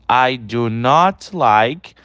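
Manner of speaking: slow full form. Shown as a demonstration. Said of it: "Olha aí a forma contraída".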